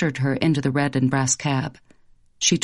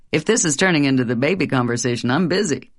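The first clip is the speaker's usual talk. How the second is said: quick dodge; 3 semitones lower, faster than usual. Acted. Husband dodges baby talk.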